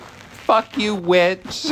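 high, loud pretend snapping; mock outburst. Recapper voices upset Hannah refusing Leo, high mock outburst. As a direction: hurl it as a hammed-up insult.

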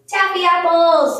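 high, loud, drawn-out delight; delighted exclamation. A narrator's reading. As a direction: exclaim over a favorite treat. Missus Rogers exclaims over treat.

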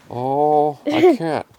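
high whining refusal; reluctant cat. A narrator's reading. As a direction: wriggle out of it, voice climbing. Tom refuses to share.

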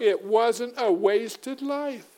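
slow, high, weighted on WASN'T; high slow sermon emphasis; emphatic. Acted. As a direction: lean hard on wasn't, slowly.

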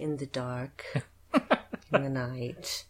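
put-on hushed, eerie child voice; soft, spooky little kid whisper; creepy child. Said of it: "doing Creepy Hal's creepy kid voice".

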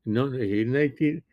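words stretched by a yawn. Real, not acted. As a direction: talk through a yawn. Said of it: "I'm sorry, I'm yawning".

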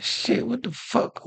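high, slow strangled cry of pain; mock pained yelp, drawn out. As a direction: gasp it out as the muscle catches. Retelling pain bending over.

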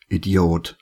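low, lightly grumbled aside; grumbled insult. A narrator's reading. Woken security man to Alex, low mild grumble. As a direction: grumble it low, as narrated dialogue. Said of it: "brummte einer der beiden".

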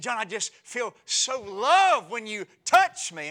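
high, loud mock wife; preacher plays his wife sweetly. Preacher voicing his wife, high and loud.

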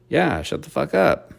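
high dismissive snap; scornful retort. Real, not acted. Vlogger telling the soccer player off, high and scornful. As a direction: cut her off with scorn.

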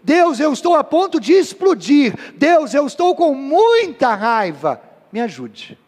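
prayer building, then hushed "Me ajude"; anguished prayer. Retold or imitated. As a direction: pour out anger to God, then beg. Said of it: "É você dizer".

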